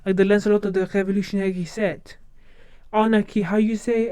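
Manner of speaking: put-on French accent, performed with flair; Lafayette. Proving fitness for the Hamilton role, French accent. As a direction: play the Frenchman, lightly accented. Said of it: "a Lafayette well".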